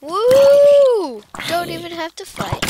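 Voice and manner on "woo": a loud, high cheer of delight; loud triumphant woo; high excited whoop. Real, not acted. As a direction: whoop like you just won. Celebrating in game.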